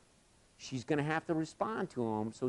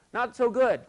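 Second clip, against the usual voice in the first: put-on a higher, small voice of a frightened kid; imitating scared boy; 11 semitones higher, 6 dB louder than usual. Frightened boy on the cable answers the coach, high and small. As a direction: sound like a boy who wants down.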